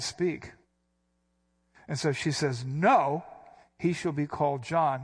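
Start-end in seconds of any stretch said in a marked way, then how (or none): 2.6-5.0 No jumps out, startled and sudden; abrupt retort. Shown as a demonstration. Preacher voicing Elizabeth jumping at relatives, abrupt. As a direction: blurt the No like a knee-jerk reaction. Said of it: "why do I keep inflecting like that".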